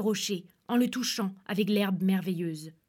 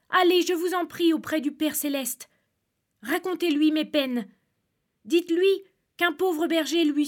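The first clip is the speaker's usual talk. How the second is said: higher, louder desperate plea; calling out; 5 semitones higher, 3 dB louder than usual. Acted. Terrified shepherd on the dragon calls to the lark, pleading cry. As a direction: call up to the lark, begging for help. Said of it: "et lui cria".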